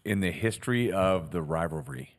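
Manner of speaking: speaking with freshly tightened braces; words a little off from sore braces. Real, not acted. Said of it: "I just got my braces tightened today".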